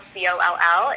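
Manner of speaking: C O L L spelled out letter by letter; spelling it out. Shown as a demonstration. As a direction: spell out C O L L one letter at a time. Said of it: "my last name is spelled".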